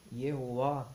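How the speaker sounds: "Yehuá" with the last vowel rounded toward an open O; closed final A. Shown as a demonstration. Teacher showing the name's final vowel, closed "Yehuá". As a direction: stretch "Yehuá" slowly, closing its final A toward O. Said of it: "que seria com som de O".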